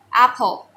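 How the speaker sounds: apple with an open American a, stressed on the first syllable; correct American apple. Shown as a demonstration. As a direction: model apple clearly for the class. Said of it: "It's pronounced as apple".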